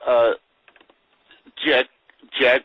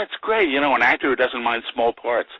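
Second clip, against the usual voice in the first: higher, mildly enthusiastic praise; imitated pleased director; 4 semitones higher than usual. Director welcoming an actor for small parts, mildly upbeat. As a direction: lightly play a delighted director.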